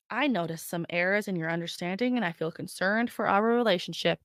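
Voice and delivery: soft, calm, overly composed; calm and measured. Retold or imitated. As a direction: say it like a therapist. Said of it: "calmly in a relationship said".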